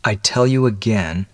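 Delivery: held-in, understated insistence; mildly grated, restrained protest. Acted. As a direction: say it through a tight jaw. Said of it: "he grated".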